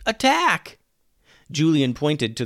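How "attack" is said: high, loud battle cry; yelling. A narrator's reading. Julian orders the giant baby at pirates, yelling. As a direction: shout the command to charge. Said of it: "yelled Julian".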